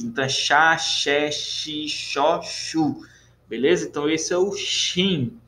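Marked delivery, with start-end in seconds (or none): 0.0-3.0 chá, xé, xi, xó, chu each with a clear SH; SH syllables. Shown as a demonstration. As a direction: drill the SH sound syllable by syllable. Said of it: "o som de X". (sílabas chá, xé, xi, xó, chu com som de X)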